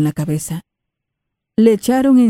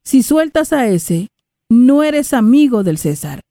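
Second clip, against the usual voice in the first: shouting; 6 semitones higher than usual. Acted. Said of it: "los judíos gritaban".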